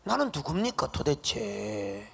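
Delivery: 하나님께 따지는 모세; Moses protesting. Acted. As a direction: argue hotly with God. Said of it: "모세가 하나님 앞에 지금 따지는 겁니다".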